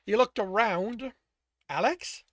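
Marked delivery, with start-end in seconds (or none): 1.7-2.2 rising call, louder. A narrator's reading. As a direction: call his name into the dark. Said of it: "he called".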